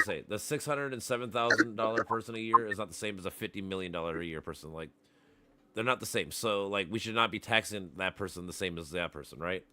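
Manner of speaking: choppy robotic call audio; robotic cutting out. Real, not acted. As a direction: voice breaking up on a bad line. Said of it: "You're cutting out".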